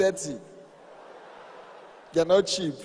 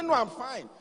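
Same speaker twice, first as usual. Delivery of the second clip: higher-pitched, mildly huffy wife; mock testy denial; angry wife; 5 semitones higher than usual. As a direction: imitate a wife insisting through her anger. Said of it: "She was angry".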